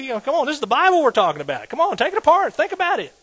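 excited preacher's call; fervent urging. Real, not acted. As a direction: push them to dig in, fast at first. Urging congregation to dig in.

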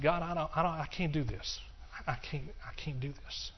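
pleading with God, fading into a whispered breath; desperate prayer fading to whisper. Retold or imitated. Retold desperate first prayer.

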